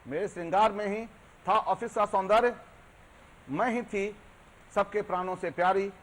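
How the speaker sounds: proud, wistful recital as a once-queen; declaimed poem monologue. Acted. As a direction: stretch the phrases, pausing between lines. Poem's file recalls her glory. (बीते गौरव को याद करता कविता पाठ)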